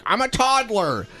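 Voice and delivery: high-pitched mimicked catchphrase; imitating remix line. Co-host describing a funny remix, in high mock imitation. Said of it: "I saw a remix where he's like".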